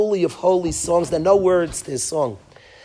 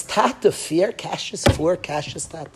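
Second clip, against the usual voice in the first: pleading cry; 4 semitones higher than usual. Retold or imitated. Rav Levi Yitzchak crying to Hashem at the Seder, pleading. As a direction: beg your father in heaven, near tears.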